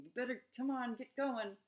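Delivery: mock dictator pushing you to hurry. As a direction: bark it like a tyrant with a gun to your head. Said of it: "Like there's a dictator".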